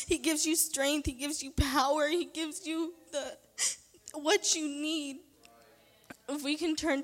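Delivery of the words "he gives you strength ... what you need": tearful praise. Real, not acted. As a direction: voice higher, close to crying. Emotional praise in testimony.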